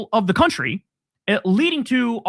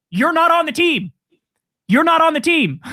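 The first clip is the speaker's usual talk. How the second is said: higher, mocking taunt; taunting sing-song; 8 semitones higher than usual. Taunting Fuentes in a higher mocking sing-song. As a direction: rub it in, teasing.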